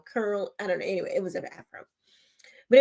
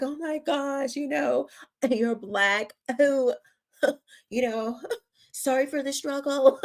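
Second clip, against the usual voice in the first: higher, fawning sympathy broken by laughs; mock white liberal; 5 semitones higher than usual. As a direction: lampoon a patronizing liberal while laughing. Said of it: "that white liberal that has to be like".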